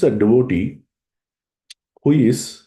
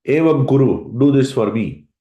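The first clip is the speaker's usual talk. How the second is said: Lord's command; 4 semitones higher than usual. Pretend. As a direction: give the order like the Lord himself. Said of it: "with your deep voice".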